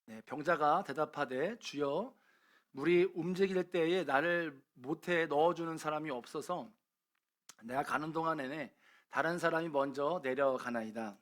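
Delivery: measured Bible reading aloud; formal, even scripture recitation. Acted. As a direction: read the verse out to a congregation. Reads the Bible passage aloud.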